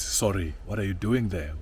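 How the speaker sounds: mildly sharp, suspicious challenge; imitating a suspicious neighbour; accusing tone. Neighbour questioning the man sitting by her gate, mildly accusing. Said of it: "A very accusing voice, a very accusing tone".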